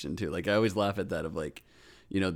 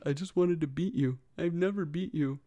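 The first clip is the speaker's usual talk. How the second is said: character quote; 8 semitones higher than usual. Retold or imitated. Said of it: "She's like".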